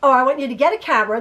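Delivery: rapid-fire mock instructions; brisk, lightly voiced impression of a son; imitating her son. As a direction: reel off orders quickly, as her son does. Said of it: "This is how he talks".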